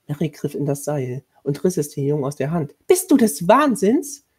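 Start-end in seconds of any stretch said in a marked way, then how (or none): 2.9-4.2 high, loud, slow outburst; outraged scolding. A narrator's reading. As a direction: scold in horrified disbelief. Horrified woman scolds boy. (entsetzt geschimpft)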